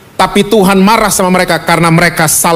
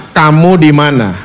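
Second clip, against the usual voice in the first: lower-pitched gentle question from God; searching, not angry; 5 semitones lower than usual. Retold or imitated. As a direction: ask it low, searching rather than scolding. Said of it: "intonasinya Tuhan tidak marah sama Adam".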